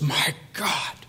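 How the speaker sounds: hushed, heartfelt cry to God; soft, imploring address; emotional plea. Retold or imitated. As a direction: breathe it out as a prayer. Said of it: "the emotion he brings into it".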